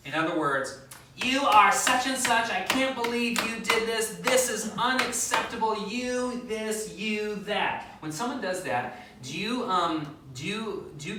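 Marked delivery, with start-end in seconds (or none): 1.2-8.0 high, loud accusing outburst; attacking spouse. Retold or imitated. Pastor voicing a spouse's attack, loud and accusing. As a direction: hurl the blame like a partner on the attack. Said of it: "comes in on the attack".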